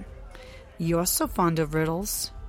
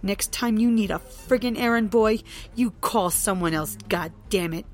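angry rant; 4 dB louder than usual. Acted. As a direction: tear into him. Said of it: "continue her rant".

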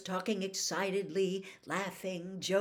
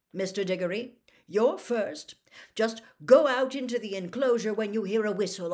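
loud, higher-pitched showman giving instructions; hearty official; 3 semitones higher, 9 dB louder than usual. Acted. Bagman tells the champions their task, hearty and loud. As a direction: play a booming, excitable contest official.

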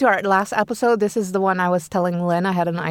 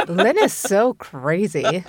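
deadpan; much slower than usual. Retold or imitated. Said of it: "Like, not even laughing".

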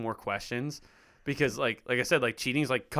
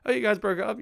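high curious mock gasp of surprise; imitating surprised friend; 10 semitones higher than usual. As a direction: play the nosy friend, surprised and pitched up. Friend asks about breakup.

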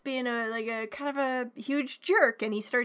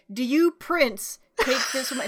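mock priest; 3 dB louder than usual. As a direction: intone it like a priest at the altar. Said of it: "the priest is like".

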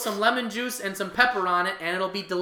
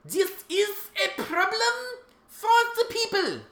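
mock serious announcer; 13 semitones higher than usual. Mock announcer line about carp.

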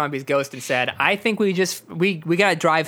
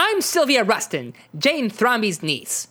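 high, slow rough London slang; a hint of a cheeky London girl; Chav accent; 5 semitones higher, slower than usual. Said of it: "She has a Chav accent".

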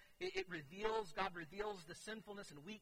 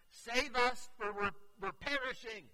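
higher, louder panicked plea; fearful cry; 7 semitones higher, 10 dB louder than usual. Retold or imitated. Disciples waking Jesus in the storm, fearful cry. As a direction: cry out for rescue in fear. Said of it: "you can hear the fear in their voice".

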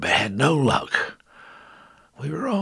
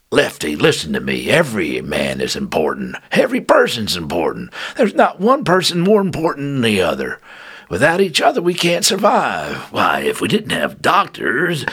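firm sergeant voice; 9 semitones higher, 5 dB louder than usual. Acted. Sarge speech to Lefty.

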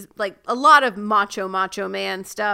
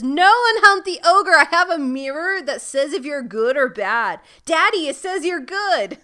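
Belle voice; 4 semitones higher, 5 dB louder than usual. Retold or imitated. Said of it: "And Belle says".

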